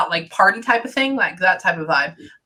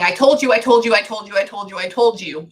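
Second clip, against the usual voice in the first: insistent repeating. Retold or imitated. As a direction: rattle it off over and over, retold. Channels a repeated insistent warning.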